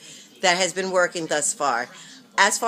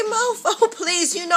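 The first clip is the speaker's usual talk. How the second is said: sassy comeback; 13 semitones higher, 3 dB louder than usual. Pretend. Imagined retort to rude question.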